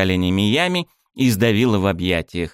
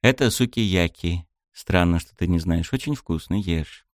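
mild reproach. Acted. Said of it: "С лёгкой укоризной в голосе".

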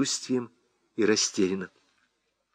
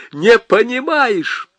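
much higher, slow disbelief; incredulous; 10 semitones higher, 4 dB louder, slower than usual. Acted. Husband asks wife in stunned disbelief.

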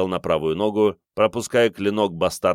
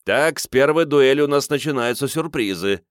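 lively commentator; 6 semitones higher, 3 dB louder than usual. A narrator's reading. Merkian comments on duel.

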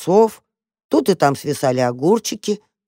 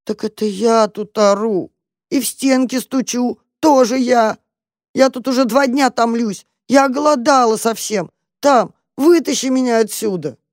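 high, pleading cat; 7 semitones higher than usual. Acted.

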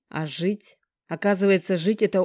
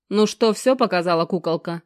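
louder, fierce booming question; fierce rumble; 5 dB louder than usual. Acted. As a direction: boom it out fiercely. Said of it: "свирепо прогрохотал Геныч".

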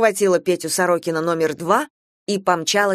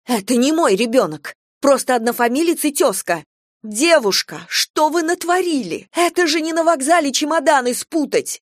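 outraged mother; 7 semitones higher than usual. A narrator's reading. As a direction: scold the careless young teacher. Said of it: "Голос прорезался". (возмущённая мать отчитывает практикантку)

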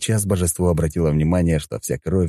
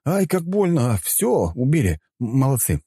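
higher-pitched, unimpressed fake ouch; offhand sarcastic praise; mock matter-of-fact pain; 9 semitones higher than usual. A narrator's reading. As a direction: feign being hurt, casually and without conviction. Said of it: "буднично проговорил я".

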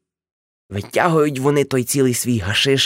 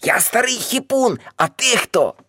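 defiant; 10 semitones higher than usual. Acted. Uncle defiant toward the aunt.

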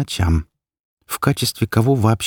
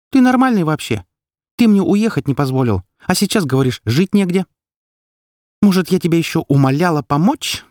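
much higher, louder furious outburst; much higher, louder furious outburst at her partner; 9 semitones higher, 4 dB louder than usual. A narrator's reading. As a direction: let the fury boil over. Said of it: "Завелась я не на шутку".

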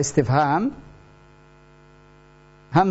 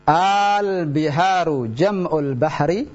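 slow, rising question on Al-biharu; question intonation; slower than usual. Shown as a demonstration. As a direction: lift the end of Al-biharu jam'ul bahri into a question. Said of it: "lihat bagaimana perubahannya".

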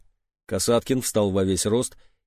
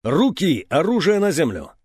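booming command; 4 semitones higher than usual. Acted. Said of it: "зычный голос".

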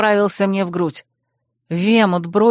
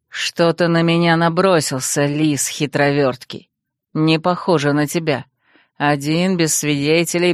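low, menacing hissed taunt, lower voice; angry hiss; 5 semitones lower than usual. Acted. Rival sneering at the pinned prince, low angry hiss. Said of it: "зло прошипел".

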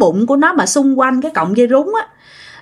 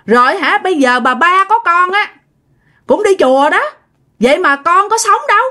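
mock furious rant, higher and rising; angry outburst; 5 semitones higher than usual. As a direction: voice pitched higher, a heated old man's retort. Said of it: "ông cố nói".

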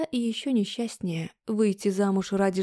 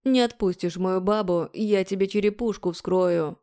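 growled threat. Acted. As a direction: growl it at him. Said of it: "Прорычал".

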